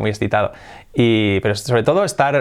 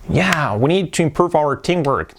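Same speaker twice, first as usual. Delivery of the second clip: example voice; 3 semitones higher than usual. Acted. Example line, put-on voice.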